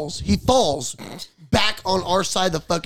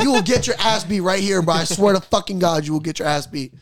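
retold threat; 2 semitones higher than usual. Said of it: "That's when I lost my shit".

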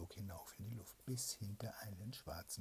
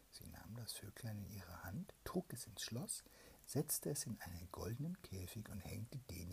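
hushed storyteller's whisper; whispered bedtime story. A narrator's reading. Parent whispering a fairy tale to a child at bedtime.

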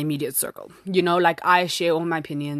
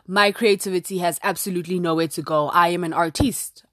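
mock-tortured artist, lightly hammed; dramatic tortured artist. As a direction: play the suffering artiste, half joking. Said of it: "I just like acting dramatic and tortured like one".

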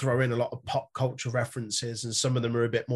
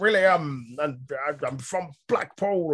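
mock Scottish accent; slower than usual. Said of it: "I done a Scottish accent for William".

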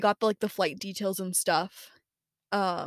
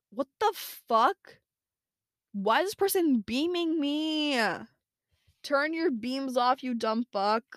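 high-pitched, drawn-out road-rage complaint; aggressive; 5 semitones higher, slower than usual. Real, not acted. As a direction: curse indignantly at someone who can't hear you. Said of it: "You guys just saw me get really aggressive".

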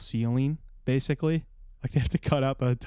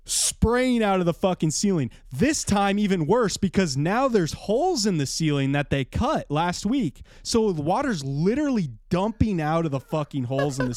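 building indignation at the flood; worked-up storyteller; excited retelling; 5 semitones higher than usual. Real, not acted. Ceiling flooding again.

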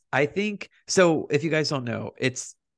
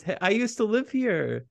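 imitating J Lo; 9 semitones higher than usual. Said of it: "she says".

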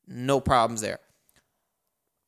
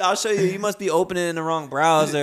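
higher mock-innocent excuse; raised-pitch playful fibbing; feigned helpfulness; 4 semitones higher, 3 dB louder than usual. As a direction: stall mom with pretend helpfulness. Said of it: "I'm like".

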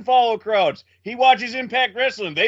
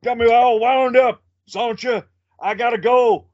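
lightly hammed-up wrestler bluster, a bit higher; mock wrestling promo; 4 semitones higher than usual. Host hams a wrestler promo at his co-host, lightly blustering. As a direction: play a blustering old wrestler cutting a promo, not fully committed. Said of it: "I thought you were being Ron Fuller".

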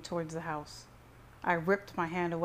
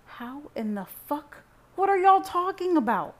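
angry disbelief; 10 semitones higher, 9 dB louder than usual. A narrator's reading. Stunned son demands an explanation from family, angry disbelief. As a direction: explode into an incredulous question.

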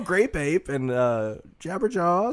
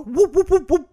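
Curly whoop; 11 semitones higher, 5 dB louder than usual. Retold or imitated.

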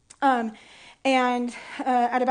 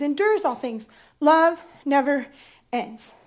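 scripture reading. Acted. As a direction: read the Bible passage with weight. Reads scripture aloud.

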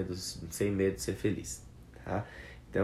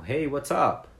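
higher and louder, breezy and casual; casual greeting; 7 semitones higher, 6 dB louder than usual. Shown as a demonstration. Teacher shows students the casual native greeting. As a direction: toss it off like greeting a buddy. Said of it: "A gente pode ir pra um".

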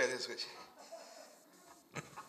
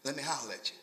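mock man's pickup line; 12 semitones lower, 12 dB quieter, faster than usual. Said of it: "This is what he do".

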